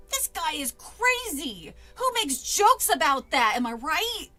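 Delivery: loud, high hillbilly outburst; big American southern accent, incredulous. Acted. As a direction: exclaim in a slow southern hillbilly drawl. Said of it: "had a hillbilly accent".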